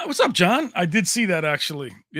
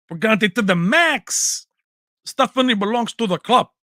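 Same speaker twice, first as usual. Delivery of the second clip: slow, louder, stretching max; drawn out; 5 semitones higher, 8 dB louder than usual. Acted. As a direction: lean into the words slowly. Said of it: "Carlito's Way".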